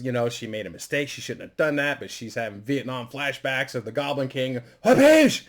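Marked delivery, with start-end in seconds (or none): 4.8-5.4 high, loud mouth slap noise; vocal smack sound effect; imitated slap as grandma hits the boy.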